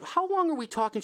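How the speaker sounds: alarmed question. Retold or imitated. Host asking the neighbor how long the snake is, alarmed and high. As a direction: squeak it out like the size scares you.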